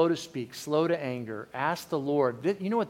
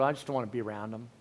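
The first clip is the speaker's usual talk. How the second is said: fast, softer, lower withdrawn mutter; withdrawn mumble; 4 semitones lower, 5 dB quieter, much faster than usual. Retold or imitated. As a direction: pull away and mumble it quickly. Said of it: "yours might be withdrawing".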